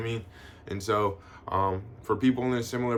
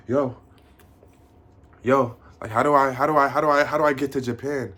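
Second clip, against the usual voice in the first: eager viewer; 3 semitones higher, 6 dB louder than usual. Pretend. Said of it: "So if you're like".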